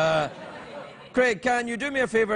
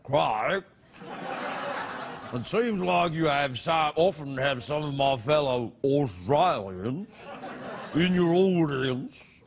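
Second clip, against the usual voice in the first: mock Australian accent, slowed, laughing through it; 5 semitones lower, slower than usual. Shown as a demonstration. Host reads an Australian viewer's letter in an Australian accent. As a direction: read the fan letter in a put-on Australian accent. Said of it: "I should read this in Australian".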